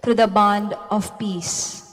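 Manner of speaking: measured formal proclamation; scripture reading. Acted. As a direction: read it like a lector at Mass. Lector reads scripture at Mass.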